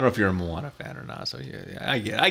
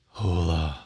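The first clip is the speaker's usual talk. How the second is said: Spanish accent, much lower; deep voice; 6 semitones lower than usual. Shown as a demonstration. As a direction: drop the Hola low and slow. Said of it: "a one octave lower".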